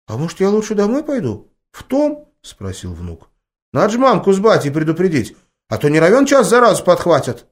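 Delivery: put-on high child's voice, hopeful; a boy trying to bargain; pleading boy. A narrator's reading. Grandson asks grandma to go home, child voice.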